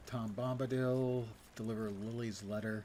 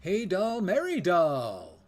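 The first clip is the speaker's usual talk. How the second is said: hippie voice; 5 semitones higher, 9 dB louder, much slower than usual. Retold or imitated. Imitating Bombadil.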